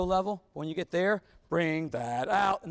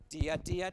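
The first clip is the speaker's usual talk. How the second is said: "dia, dia" with the second note leading on; "dia" phrased with a lift toward the next note; right stress demo; 3 semitones lower, 5 dB quieter than usual. Shown as a demonstration. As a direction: sing "dia" so the second syllable moves forward to the next. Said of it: "it should be dia".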